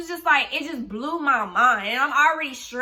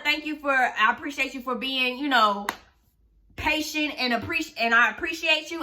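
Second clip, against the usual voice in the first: sarcastic thanks. Retold or imitated. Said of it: "I was being sarcastic as fuck".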